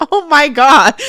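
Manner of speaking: mock overwhelmed cry, half laughing; imitated tearful reaction. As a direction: imitate her shaken reaction through laughter. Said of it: "But the way she says".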